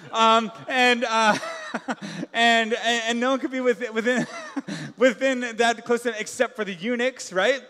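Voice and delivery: laughing through words. Real, not acted. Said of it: "laughs on the lines".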